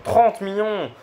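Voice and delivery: high, loud cry of disbelief; shrieking jackpot winner. Real, not acted. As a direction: shriek like you just hit the jackpot. Huge pack pull, disbelief. (cri aigu de gagnant au jackpot)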